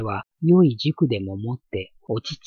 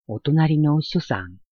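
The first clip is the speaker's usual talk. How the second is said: calling out; 6 semitones higher, 4 dB louder than usual. Acted. Neighbor calls at the door.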